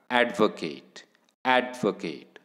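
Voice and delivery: ॲडव्होकेट with the first syllable ॲड hit hard; teacher demo, stress on ॲड. Shown as a demonstration. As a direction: lean on ॲड in ॲडव्होकेट. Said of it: "एम्फॅटिकली उच्चारला जाईल".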